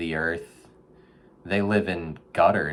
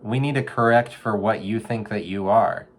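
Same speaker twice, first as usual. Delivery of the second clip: gentle life-coach advice; 4 semitones higher than usual. Retold or imitated. Advising a raccoon in a storm drain, earnest counselor voice. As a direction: talk the raccoon through it like a therapist. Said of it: "I'm like".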